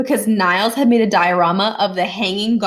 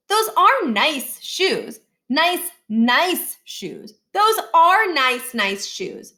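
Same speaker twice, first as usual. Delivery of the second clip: slow, high, drawn-out wheedling about the shoes; a kid overselling his case in a slow sing-song; hammed-up sing-song plea; 7 semitones higher, much slower than usual. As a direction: croon it like a whiny kid angling for new shoes. Miles hamming up a sing-song plea.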